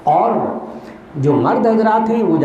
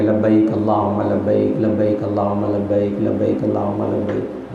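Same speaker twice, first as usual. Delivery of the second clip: half-hearted talbiyah; 4 semitones lower, 3 dB quieter, slower than usual. Shown as a demonstration. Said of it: "لوگ بس اتنا تلبیہ پڑھتے ہیں".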